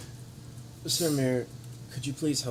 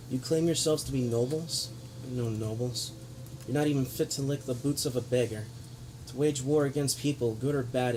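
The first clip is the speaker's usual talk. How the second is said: grave lecturing noble speech; villain monologue. Acted. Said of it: "But he is monologuing".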